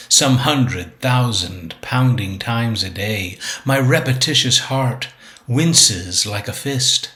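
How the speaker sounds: measured, deliberate poetry recital; poem reading. Acted. Poet reads own sonnet six eighty-five to viewers, measured recital. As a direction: recite the sonnet line by line, with pauses.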